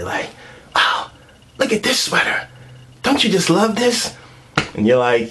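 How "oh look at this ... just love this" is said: breathy then squealing high; mock excited girlfriend. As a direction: gush over the sweater like she's thrilled. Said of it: "like, all excited".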